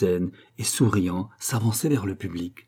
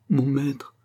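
«mon maître» redit dans un souffle, sans voix; répéter «mon maître» tout bas, brisé; chuchoté; 5 semitones higher than usual. Acted. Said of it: "se répétant". (Fonty prostré répète «mon maître», chuchoté)

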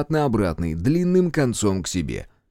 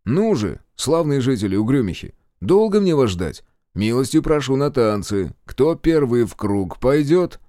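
taunt; 3 semitones higher, 3 dB louder than usual. Acted. Hero silently taunting approaching attackers.

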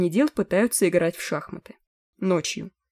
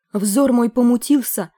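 pompous exclamation; 5 semitones higher, 5 dB louder than usual. A narrator's reading. Pompous chronicler's address.

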